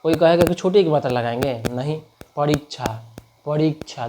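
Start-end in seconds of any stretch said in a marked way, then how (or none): 1.7-4.1 soft परीक्षा holding the long ई; stretched long ई. Shown as a demonstration. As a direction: draw out री in परीक्षा. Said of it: "देख रहा है कितना खिंचा रहा है".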